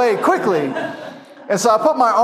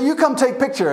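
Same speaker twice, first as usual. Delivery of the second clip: much higher, sing-song sales call; lightly voiced tiger-photo hawker; high-pitched Thai man; 7 semitones higher than usual. Thai photo hawker calling tourists over, high-pitched. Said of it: "who has a real high-pitched voice".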